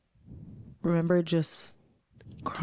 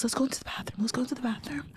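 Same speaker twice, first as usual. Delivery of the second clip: soft whisper; 6 semitones higher, 6 dB quieter, much faster than usual. Retold or imitated. Friend gently leads her away.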